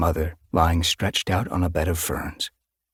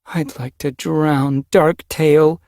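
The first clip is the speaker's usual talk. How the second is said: vengeful declaration; 10 semitones higher, 7 dB louder, much slower than usual. A narrator's reading. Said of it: "Cloudmist declared".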